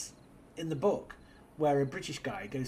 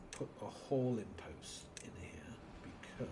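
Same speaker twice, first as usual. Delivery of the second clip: whispering; 4 semitones lower, 9 dB quieter than usual. Real, not acted. Muttering to self while playing.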